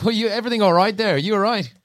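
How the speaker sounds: casual, unbothered, high check-in; easy, unafraid concern; relaxed call out. Acted. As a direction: chill guy asking a drunk stranger if he's okay. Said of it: "I'm not, like, scared, so I'm just like".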